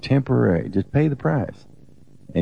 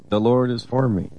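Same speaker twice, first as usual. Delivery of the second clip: higher, ringing declaration of faith; declared affirmation; 6 semitones higher than usual. Shown as a demonstration. Husband shows the morning affirmation to his wife, higher and proclaimed. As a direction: proclaim it like a morning victory cry. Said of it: "We get up in the morning and say that".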